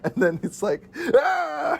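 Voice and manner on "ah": retold movie scream; mock scream. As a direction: let out a held-back high "ah". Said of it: "everybody is screaming".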